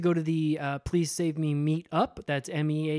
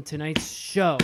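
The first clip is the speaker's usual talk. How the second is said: mock crying; slower than usual. Fake upset about missed segment.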